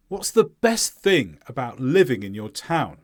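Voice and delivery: falling question tune on "town"; stressed content words. Shown as a demonstration. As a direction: stress "best thing", "living", "town". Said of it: "we might stress that word too".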